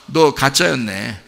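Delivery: slow, low, softened quote of a companion; disillusioned onlooker. Acted. Friend seeing through a churchgoer's act, low disillusioned murmur. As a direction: murmur it like a quiet verdict. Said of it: "그렇게 합니다".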